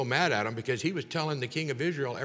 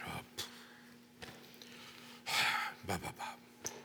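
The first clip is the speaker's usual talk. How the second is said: much softer, breathless, bored mumbling with a sigh; no enthusiasm; 8 semitones lower, 15 dB quieter than usual. Retold or imitated. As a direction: grumble it out half-heartedly like a sulky king. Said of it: "He didn't do it with the enthusiasm".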